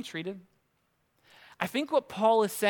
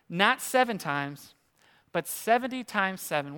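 smirking. Retold or imitated. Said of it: "Jesus probably smirks a little bit".

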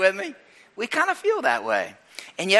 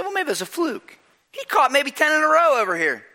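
doubtful coach; 8 semitones higher than usual. Retold or imitated. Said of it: "I said".

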